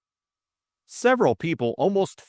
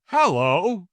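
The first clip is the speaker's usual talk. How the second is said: high, groggy greeting; thick-voiced; 8 semitones higher, 5 dB louder than usual. A narrator's reading. Jimmy sitting up after the knock, thickly. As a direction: come round muzzily, voice thick. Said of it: "he said thickly".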